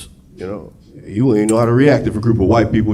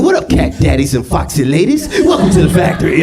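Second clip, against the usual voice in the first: jive Oompa Loompa; 4 semitones higher than usual. Pretend. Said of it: "Oompa Loompas talking in jive".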